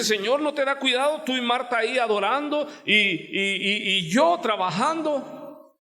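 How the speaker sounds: high, fast whiny complaint; complaining Martha. Retold or imitated. Martha complains to Jesus that she works alone, high and fast. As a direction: rattle off a grievance like a put-upon sister. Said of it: "reprende al Señor".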